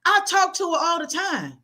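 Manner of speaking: high, no-nonsense grandmother lecture; blunt grandmother lecture. Retold or imitated. Grandmother telling grieving grandson to get over it, blunt. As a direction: scold him straight like a blunt grandma. Grandmother's long scolding, voiced.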